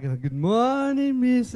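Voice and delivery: slow sing-song class chant; schoolchildren greeting. Retold or imitated. Preacher imitating kids greeting their teacher, sing-song. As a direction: chant it like a room of pupils.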